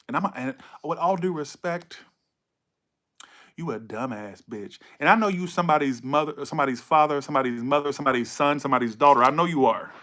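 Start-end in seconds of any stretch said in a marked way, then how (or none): 3.6-4.8 low, slow, hushed put-down; quiet insult. Real, not acted. Reader to the Gemini querent, quiet insult. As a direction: say it slowly under your breath, pitched down. Repeats insult with due respect.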